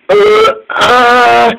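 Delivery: stall, not knowing what to say; caught-out hesitation; hesitant stammer. A narrator's reading. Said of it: "went Neville, not knowing what to say".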